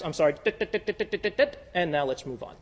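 hurried checklist apology; mock checklist apology. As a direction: rattle off a ticking list. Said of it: "go through these steps".

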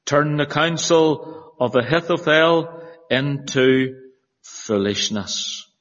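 solemn, measured Bible reading; formal pulpit reading voice; scripture reading. Acted. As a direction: read it out to a congregation, phrase by phrase with pauses. Reads scripture aloud to congregation.

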